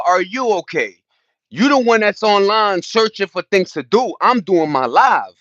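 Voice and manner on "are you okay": turned-back challenge. Acted. Turning a viewer's question back on them, blunt and pointed. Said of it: "No, nigga".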